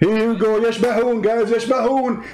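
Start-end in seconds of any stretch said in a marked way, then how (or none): 0.6-1.2 يشبهون echoed with sh for s; imitated mispronunciation. Host showing listeners caller's slip, يشبهون said with sh. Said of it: "who is the donkey who taught you". 1.5-2.2 يشبهون repeated with sh for s; imitated mispronunciation. Host repeating caller's slip for the audience, يشبهون with sh. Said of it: "who is the donkey who taught you".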